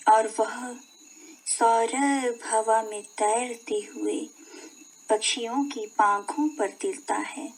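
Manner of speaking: measured poem reading, phrase by phrase; poem recitation. Shown as a demonstration. Teacher reading a Dinkar poem to children, measured recitation. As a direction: recite the verse in a spoken voice, pausing between phrases. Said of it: "का वाचन हम करते हैं".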